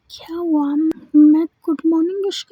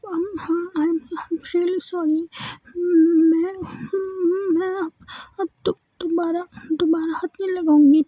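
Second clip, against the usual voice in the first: tearful, halting sorry through sobs; a teen daughter crying as she begs forgiveness; crying apology. Acted. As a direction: plead through tears, voice catching. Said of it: "रोने लगती है".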